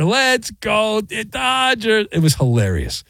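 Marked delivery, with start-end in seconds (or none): 0.0-2.1 put-on high, slow sing-song chant of a small boy; cute little kid voice. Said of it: "this little kid, every batter".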